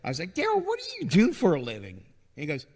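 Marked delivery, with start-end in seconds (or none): 0.3-2.0 curious retold question.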